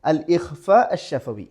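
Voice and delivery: slow, drawn out അൽ ഇഖ്ഫ അഷ്-ശഫവി for students; slow teaching read. Shown as a demonstration. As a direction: spell the term out slowly. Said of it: "first one".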